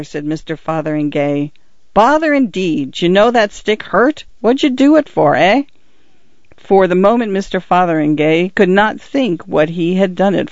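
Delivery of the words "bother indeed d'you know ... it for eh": higher, pressing questions from an annoyed policeman; irritated constable. Acted. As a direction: constable demanding why the stick hit him. Constable Winch's voice.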